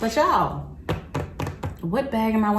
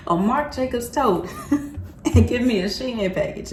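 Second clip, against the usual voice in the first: high, slow, laughing disbelief; laughing outrage; 4 semitones higher, slower than usual. Real, not acted. Vlogger to viewers, laughing in outraged disbelief. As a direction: laugh out the injustice of it all.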